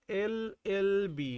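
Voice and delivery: slow "এল এল বি", each "এল" drawn out on its e sound; spelled out slowly. Shown as a demonstration. Teacher showing students why an comes before, slowly spelled. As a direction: stretch every "এল" in "এল এল বি" so the e sound lasts. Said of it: "তার মানে এল উচ্চারণ করো".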